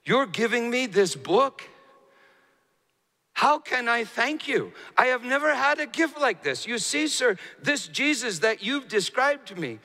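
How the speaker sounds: high, impassioned retelling of a tearful monk; tearful monk, retold. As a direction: voice the monk's overwhelmed gratitude, pitched high. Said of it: "through the tears, the monk said this".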